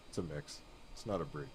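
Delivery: whispered correction; whispered aside. Real, not acted. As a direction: whisper it under the breath.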